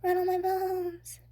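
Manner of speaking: slow, high, loud spooky croak; a parrot playing ghost; slow eerie parrot wail. A narrator's reading. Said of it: "imitation of a spooky voice".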